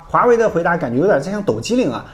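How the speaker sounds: ordinary talk, nothing marked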